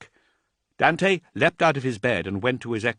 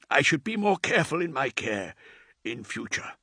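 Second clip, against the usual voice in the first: lightly voiced old thrall. Aged thrall reassuring Dante, lightly voiced and deferential. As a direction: answer your lord with humble care.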